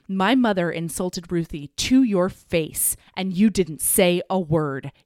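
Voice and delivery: slow, firm mock telling-off; measured retold anger building to a firmer order; retold indignation. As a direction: act out an indignant dressing-down, word by word. Acting out Clover throwing everyone out.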